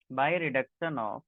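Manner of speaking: very slow, every word spelt out for notes; slow dictation. Shown as a demonstration. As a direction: say it slowly so students can write it down. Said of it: "dictating to class".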